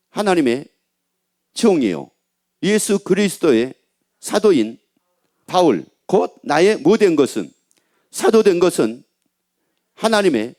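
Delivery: measured reading in short, separated phrases; scripture reading. Acted. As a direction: read the verse out slowly, phrase by phrase. Reads scripture aloud to congregation. (끊어서 또박또박 읽는 성경 낭독)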